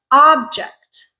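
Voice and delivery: "object" as OB-ject; stress on first syllable. Shown as a demonstration. Teacher gives another way, "object" stressed on OB. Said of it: "Another way to pronounce the same word".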